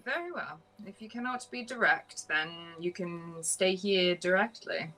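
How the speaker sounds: formal, measured dismissal; in-character stern reply. Acted. Character refusing an evasive stranger, formal dismissal. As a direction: deliver a formal ultimatum, slowing at the end. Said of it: "it's like".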